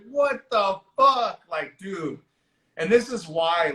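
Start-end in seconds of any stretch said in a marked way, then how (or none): 0.1-1.4 high, slow, drawn-out astonishment; retold disbelief. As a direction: stretch it out in acted disbelief. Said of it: "And I'm just like".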